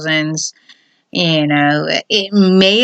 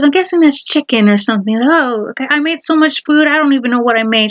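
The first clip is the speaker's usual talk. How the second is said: lightly put-on higher housewife voice; a hint of a nervous wife, pitched up; female voice; 6 semitones higher, faster than usual. Wife explaining the party food to husband, in a lightly put-on female voice. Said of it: "the female voice now".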